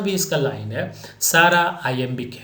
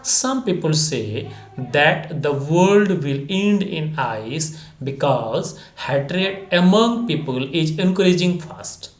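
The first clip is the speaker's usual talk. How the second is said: slow dictation reading; much slower than usual. Acted. Reads quiz answer aloud.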